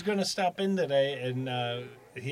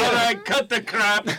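A musician's voice; 7 semitones higher, 4 dB louder than usual. Retold or imitated. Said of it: "this is the musician".

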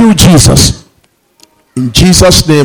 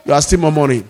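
soft, lower repeat of the rebuke; quiet repeat; 4 semitones lower, 8 dB quieter, much faster than usual. Real, not acted. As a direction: drop the voice and say it again. Repeated rebuke, loud then soft.

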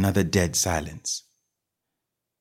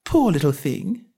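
coaxing tone; 6 semitones higher than usual. A narrator's reading. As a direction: coax the word Poor gently. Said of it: "in a coaxing tone".

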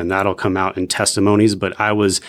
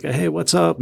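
high, casual mock hello; higher imitation of a casual greeting; breezy greeting; 9 semitones higher than usual. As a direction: toss off a bright, high hi. Casual greeting voiced in story.

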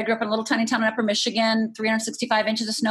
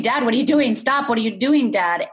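retold scream; 3 dB louder than usual. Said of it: "start screaming".

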